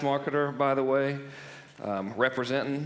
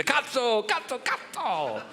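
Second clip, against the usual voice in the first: high, drawn-out, exaggerated Italian exclamation; very emphatic; 12 semitones higher, slower than usual. Shown as a demonstration. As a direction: belt it out as an over-the-top greeting. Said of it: "if said very emphatically".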